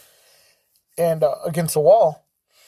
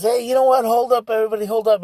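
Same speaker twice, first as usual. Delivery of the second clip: raised, higher voice calling the room to order; mild mock call for silence; calling out for attention; 6 semitones higher, 4 dB louder, faster than usual. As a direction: hush a room full of guests. Guest calls the room to attention.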